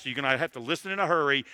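rushing through the words; fast. Real, not acted. Preacher to parents, rushing: quick pace. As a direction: hurry it along to save time. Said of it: "I'm gonna move very fast".

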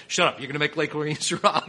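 comic bossy command breaking into laughter; retold brusque overruling. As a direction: overrule them as a pushy friend, amused. Friend overrules him, acted.

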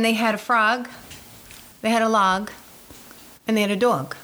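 frog, log, dog all with an AH vowel; "dog" as DAHG, rhyming with "frog". Shown as a demonstration. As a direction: list frog, log, dog with matching "ah", pausing between. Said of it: "this is a dog, a log, and a frog".

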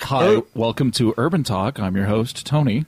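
slow, low public radio welcome; mock public radio intro; NPR host. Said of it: "Is that your new N P R show?".

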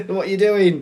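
high, loud mock scolding; exasperated. Sorting Hat scolding Harry mid-battle, high and exasperated. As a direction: shout it in comic disbelief.

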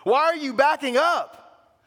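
slow, high, loud urging; Paul urging the Galatians to lean in, high and loud; loud plea. Retold or imitated. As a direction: beg them to lean in. Calling them closer.

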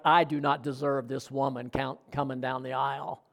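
retold tearful groom. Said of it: "he's crying".

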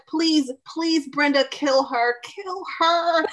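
Pamela Voorhees. Retold or imitated. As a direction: plead for the kill like a slasher villain. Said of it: "I sound like Pamela Voorhees".

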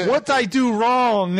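hammed-up Greek immigrant accent; mock Greek accent. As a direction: imitate a dismayed Greek parent, drawn out. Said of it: "these Greek people who barely t-, speak English".

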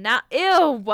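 slow, loud drawn-out ew; disgusted. Real, not acted. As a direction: linger on the disgust. Disgust at the crawl space.

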